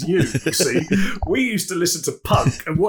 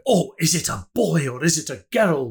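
light Scottish accent, imitating parents; a hint of Scottish parents, mildly scandalised. Parents aghast at a singer, in light Scottish accent. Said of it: "hence why I went into a Scottish accent there".

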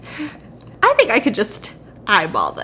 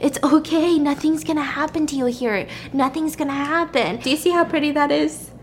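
higher-pitched mock reassurance; soothing; 5 semitones higher than usual. Kidnapper hushes crying Valerie in the cave, imitated soothing. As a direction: imitate coaxing someone who is crying.

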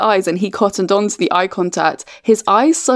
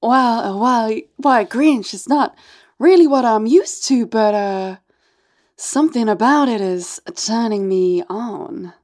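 flustered, coy seductress; halting flirtation in a put-on accent; lightly acted, hesitant intrigue; Martha May. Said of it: "Martha May".

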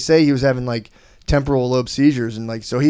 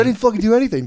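indignant protest; 10 semitones higher, 3 dB louder, faster than usual. Retold or imitated. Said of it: "he's like".

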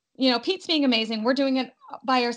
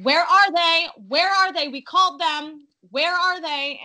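nervous; 6 semitones higher, 4 dB louder than usual. Retold or imitated. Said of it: "he starts getting a little bit nervous".

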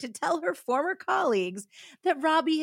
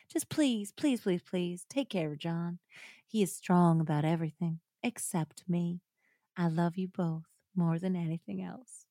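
reading a letter; 3 semitones lower than usual. Acted. Reads the letter on.

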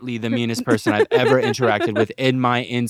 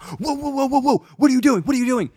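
high-pitched panicky imitation; mock alarm; 13 semitones higher than usual. Passenger imitates driver startled by bag grab, mock alarm.

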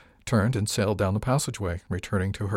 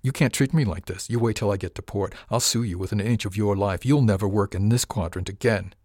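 snarling. Acted. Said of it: "His face curled in a snarl".

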